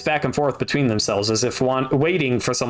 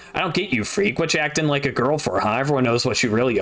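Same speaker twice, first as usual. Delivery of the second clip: put-on bully boy voice. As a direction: jeer at her like a schoolyard bully. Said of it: "Demo grinned evilly".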